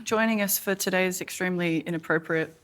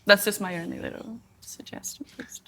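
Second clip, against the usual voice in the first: whispering; 5 dB quieter than usual. Real, not acted. Whispered aside to viewers.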